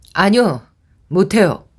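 firm, serious tone. Asked by the caller to hold someone until she arrives, the narrator gives a firm, serious refusal. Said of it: "정색을 하고 단호하게 거절했다".

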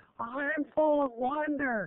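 very high-pitched, charming little voice. A puppeteer introduces their first puppet, speaking as him: Dewey puppet voice. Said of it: "has a really kind of charming affect, and he's about four".

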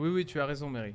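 soft, meek, put-on submission.

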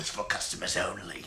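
put-on grumpy British accent. In a skit, someone refuses a restroom request to non-customers, grumpy British man accent. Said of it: "(grumpy British man accent)".

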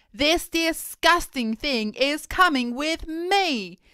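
loud, high, slow, heavy, drawn-out bellow. The headmistress confiscating the pupils' pets, bellowing. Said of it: "bellowed the headmistress".

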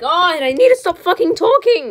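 flustered, panicky outburst, high and swooping. Player recording on a 3DS catches themself rambling, panicking. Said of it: "I'm just panicking".

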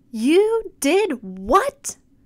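high-pitched shouted delivery. Jack's mom reacts when Jack shows her the can, shouted. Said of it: "shouted his mom".

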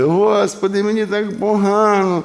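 acted very high, loud, blubbering snivelling whine. Mimicking people who come to God only to complain, in a mock-whiny snivelling plea. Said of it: "нюні розпустили".

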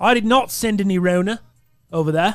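imitated Australian accent. Delivering a message as the absent gift sender: put-on australian accent. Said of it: "I don't know if that's a good impression".

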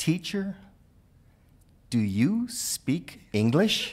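acted shy, clearly enunciated. Retelling how she finally asked her teacher after a long silence: a timid, carefully enunciated question. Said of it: "very timidly ... she enunciated as clearly as she could".

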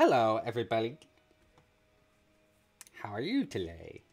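animated, sing-song hand puppet voice, swooping in pitch. Remembering a first puppet from a puppet club, doing its voice. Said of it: "I do remember what their voice was like, which was like this".

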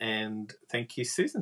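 slow, clumsy Southern drawl.

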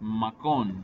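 makon with stress on final syllable kon. Explaining Wapixana stress rules: stress on last syllable of makon. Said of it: "The word makon is stressed makon, since kon ends with a consonant n".

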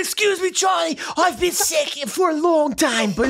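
mock Victorian English accent.

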